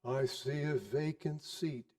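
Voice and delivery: a quiet, sombre phantom, drawn out; solemn ghost. Acted. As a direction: speak as a grave spirit foretelling death. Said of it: "replied the ghost".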